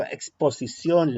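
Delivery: "exposición" said slowly, with the X sounded as ks; pronounce the X. Shown as a demonstration. Teacher demonstrating the X in "exposición". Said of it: "la X va ahí".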